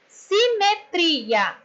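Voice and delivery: SIMETRIA very slowly by syllables, weight on TRI; stress on TRI. Shown as a demonstration. Teacher showing pupils the tonic syllable, slow SIMETRIA with stress on TRI. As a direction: sound out SI-ME-TRI-A, leaning on TRI. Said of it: "o tri".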